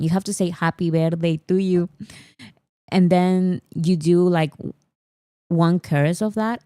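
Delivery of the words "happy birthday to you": happy birthday in a thick Spanish accent; Peruvian-accented English. Shown as a demonstration. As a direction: sing it with a strong Latin American accent, bad English. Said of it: "literally with that accent".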